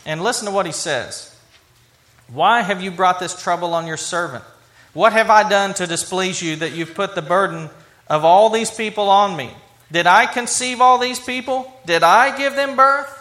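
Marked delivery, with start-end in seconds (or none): 2.3-13.2 pleading with God, rising to an outburst; frustrated Moses. Retold or imitated. Preacher voicing Moses, exasperated with God, growing louder. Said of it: "Moses is very frustrated with God".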